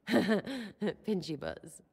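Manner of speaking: giggling it out slowly; savouring the silly words through a laugh. Real, not acted. Repeats her joke to her lover, laughing.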